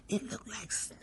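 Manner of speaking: quiet whispered echo; hushed repeat. Real, not acted. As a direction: murmur it again to yourself. Repeats the image.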